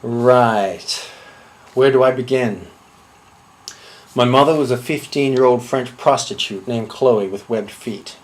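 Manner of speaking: low, measured deadpan storytelling; deadpan confession. Acted. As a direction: recount the absurd as perfectly ordinary. Deadpan absurd childhood confession monologue.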